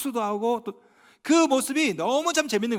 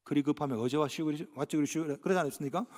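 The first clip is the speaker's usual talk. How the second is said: Chungcheong taxi driver; 6 semitones lower, 7 dB quieter than usual. Retold or imitated. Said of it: "택시기사가 뭐라 말합니까".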